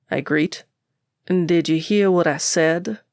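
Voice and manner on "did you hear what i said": irritated. Acted. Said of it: "He sounds irritated".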